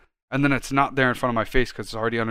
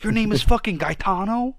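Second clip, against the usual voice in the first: incredulous, higher-pitched Italian-accented questions; 8 semitones higher than usual. Real, not acted. Insisting to a friend on a very Italian name, Italian accent. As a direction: let the Italian accent creep in. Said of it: "Here comes the Italian again".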